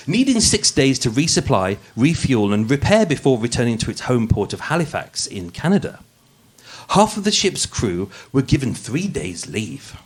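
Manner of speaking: polished, posh narrator read; posh podcast voice. Acted. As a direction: read it like a true-crime podcast host putting on airs. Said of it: "I'm putting on my posh voice".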